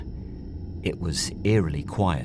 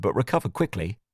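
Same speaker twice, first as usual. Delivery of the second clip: usual speaking voice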